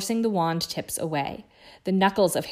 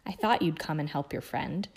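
hoarse; 2 semitones lower, 4 dB quieter than usual. Acted. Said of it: "he said hoarsely".

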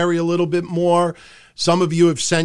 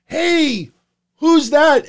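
surprised passenger; 10 semitones higher, 5 dB louder, much slower than usual. Retold or imitated. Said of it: "they're like".

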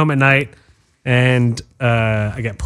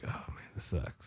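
breathy whisper, barely voiced, slow; a defeated whispered aside; muttered under breath; 19 dB quieter, slower than usual. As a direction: mutter it to yourself, almost no voice. Retold thought after the breakup.

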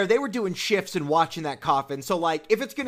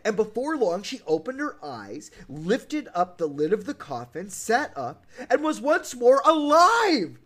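dramatic story narration; 4 semitones higher than usual. A narrator's reading. Host reading Snow White's revival, dramatic storybook narration. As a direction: build the tale to a triumphant reveal. Reads the tale's climax.

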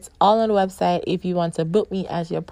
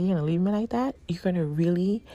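softer, hushed indignant question; retold whisper; 6 dB quieter, much faster than usual. Hushing her complaint to the partner in the dressing room, half-whispered. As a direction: keep it down in the dressing room, still miffed. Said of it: "so I'm whispering".

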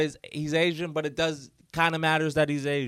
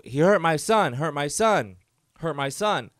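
upset accusation; 5 dB louder than usual. Retold or imitated. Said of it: "they go".

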